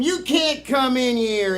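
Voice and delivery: lightly voiced pirate, slow; a hint of pirate in a slow refusal; pirate bartender. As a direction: slowly turn them away, pirate-style. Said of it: "just like that pirate".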